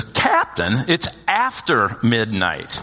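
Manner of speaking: slow, drawn-out mocking correction; emphatic correction. Older brother correcting a misheard song, slow and emphatic. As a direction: stretch the words out to correct him.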